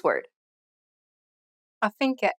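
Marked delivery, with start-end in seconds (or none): 1.8-2.3 "Affinché" ending in a closed E like "nay"; closed final E. Shown as a demonstration. Teacher answering the last quiz word, closed final E. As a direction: stress the end of "Affinché" with a close E. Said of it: "ends with an acute accented E".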